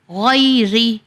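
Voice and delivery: "غیری" slow, ending on ri with a breath of h; silent final ha. Shown as a demonstration. Teacher showing the pausing form, ha silenced. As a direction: stop "غیری" without voicing hi. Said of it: "ہا کو silent کیا".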